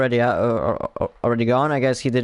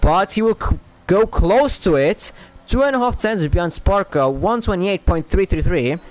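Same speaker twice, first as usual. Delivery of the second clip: excited commentary; 3 semitones higher than usual. Real, not acted. Calling the lap time.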